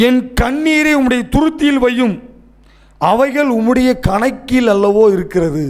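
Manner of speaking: swelling, declamatory sermon delivery; impassioned preaching. Real, not acted. Preacher declares to the weeping that every tear counts, preaching fervently. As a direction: preach the promise with mounting conviction.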